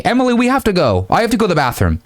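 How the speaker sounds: high-pitched imitated female friend; mock urgent plea to leave; friend's rescue excuse. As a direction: urge her away in a hammed-up high voice. Acted friend coming to rescue her.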